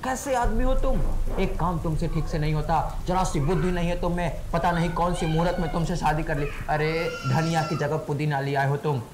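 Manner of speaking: imitated angry yelling. Husband mimics wife raging over mint for coriander, angry yelling. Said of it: "गुस्सा हो गई, चिल्लाने लगी".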